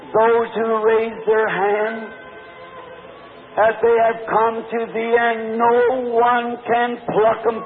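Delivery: preacher's fervent closing prayer to the Father. Acted.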